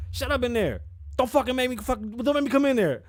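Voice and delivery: high, loud mock threat; threatening yell. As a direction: yell a warning through the door. Acted yelling through a door.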